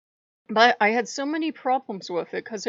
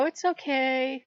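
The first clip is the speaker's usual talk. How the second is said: mock meek acceptance; 5 semitones higher than usual. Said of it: "smile and go".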